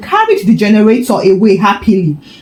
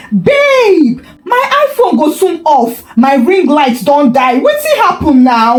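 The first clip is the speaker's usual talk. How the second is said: put-on much higher, frantic girlfriend wail; panicked scream; 5 semitones higher than usual. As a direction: screech as the lights die. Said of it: "Sandra screamed".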